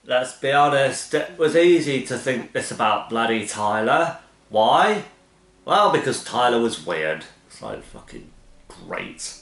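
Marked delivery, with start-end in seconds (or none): 0.1-7.3 over-exaggerated British voice. Mocking the narration about Tyler in an over-exaggerated British voice. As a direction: ham up a British accent. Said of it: "my over-exaggerated British voice".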